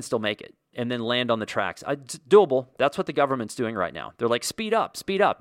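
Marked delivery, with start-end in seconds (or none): 4.4-5.4 high, pushy cry of speed up, speed up; egging the driver on in a squeaky, frantic pitch; mock urging. Government urging the train toward the broken bridge, in a high, frantic mock yell.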